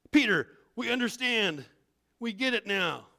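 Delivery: lightly voiced crowd; convicted crowd. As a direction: plead like people just convicted. Convicted crowd answers Peter.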